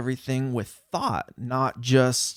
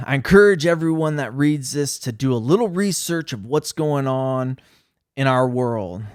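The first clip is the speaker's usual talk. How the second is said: mock-serious letter read, louder; 4 dB louder than usual. Shown as a demonstration. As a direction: read it like a grave warning to everyone. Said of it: "in my serious voice".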